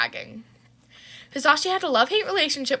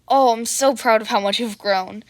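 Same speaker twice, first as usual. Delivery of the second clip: fawning; 5 dB louder than usual. Acted. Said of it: "Hisashi fawned over his daughter".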